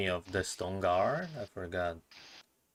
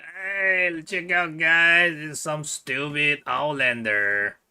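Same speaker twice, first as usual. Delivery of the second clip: a touch higher, mildly mocking call; mock jeer; 3 semitones higher, slower than usual. Player's character points out outlanders to friends, lightly jeering. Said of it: "look at them and laugh and like".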